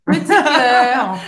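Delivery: can't keep a straight face saying petit cœur; laughing. Real, not acted. Teasing co-host about his pet name, laughing. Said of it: "Olha que romântico".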